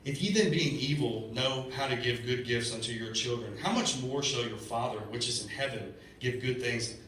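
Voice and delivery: slow, measured Bible reading; scripture reading. Acted. Preacher reading Matthew to the congregation, slow and solemn. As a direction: read the verse slowly and solemnly.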